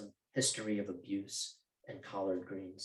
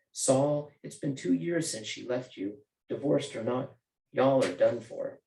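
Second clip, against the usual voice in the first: put-on Southern accent; 2 semitones higher than usual. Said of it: "Anne's Southern accent comes out when she's frustrated".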